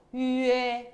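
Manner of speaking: 위에 with lips pushed far out; puckered-lip sound. Shown as a demonstration. Teacher shows the kissing sound, 위에 with rounded lips. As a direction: pucker up for 위에, held level. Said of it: "입을 쭉 빼셔야 돼요".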